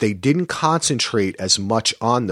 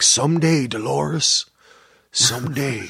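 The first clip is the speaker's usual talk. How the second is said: gravelly Teddy voice; 3 semitones higher than usual. Retold or imitated. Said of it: "In that gravelly voice that he would try to take on".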